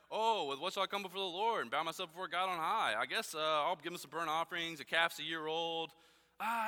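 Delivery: lightly voiced sulky schoolkid, reading under protest; annoying kid reading aloud. Shown as a demonstration. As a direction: read it like a bored kid forced to read in class. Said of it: "I wanna read it like the annoying kid in class".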